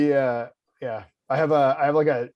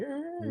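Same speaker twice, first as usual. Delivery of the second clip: high, quiet noise of disgust; thin, squeamish groan; squeamish squeal; 12 semitones higher, 10 dB quieter than usual. Retold or imitated. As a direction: let out a small high squirm of revulsion. Imitates squirming disgust at the bug.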